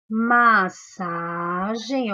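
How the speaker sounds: massagem drawn out very slowly; slow syllable by syllable. Shown as a demonstration. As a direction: pronounce massagem slowly to show the digraph. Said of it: "uma outra palavra que tem dígrafo". (massagem bem devagar)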